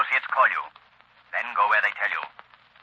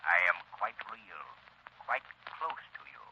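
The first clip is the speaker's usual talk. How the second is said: unvoiced close whisper; 7 semitones lower, 13 dB quieter than usual. Shadow whispering unseen beside the doctor. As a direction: breathe it right at his ear.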